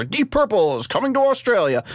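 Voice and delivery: half-hearted attempt at an Australian accent; hint of a TV-ad Australian; bad Australian accent. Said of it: "that's not a good Australian accent".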